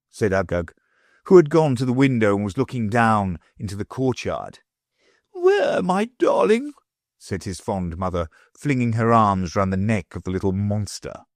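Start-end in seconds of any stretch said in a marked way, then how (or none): 5.3-6.7 high, sugary lady's voice; gushing wife, pitched way up; greedy wife in a high fluting voice; the Wardeness. A narrator's reading.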